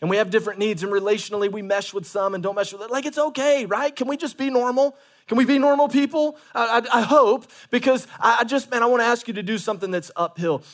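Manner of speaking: high, loud fervent preaching; preaching at full force. Real, not acted. Pastor urging church to try small groups.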